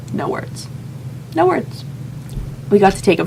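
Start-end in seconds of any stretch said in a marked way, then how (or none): 0.1-0.7 unvoiced, breathless wonder; awed whisper. Real, not acted. Recalling the warehouse full of stunning gowns, whispered in awe. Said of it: "awestruck hush". 1.3-1.8 high awed squeal. Real, not acted. Recalling the warehouse full of gowns, a high delighted squeal. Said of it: "awestruck squeal".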